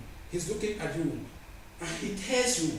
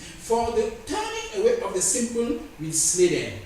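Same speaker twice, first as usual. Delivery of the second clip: scripture declamation. Acted. Preacher reading God's judgment on scoffers, declaimed. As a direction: lean on each phrase and stretch it out.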